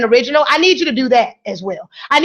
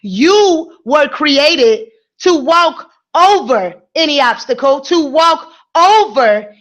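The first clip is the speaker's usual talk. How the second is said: very slow, emphatic inspirational preaching; 3 semitones lower, much slower than usual. Acted. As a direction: preach it slowly, stretching every phrase.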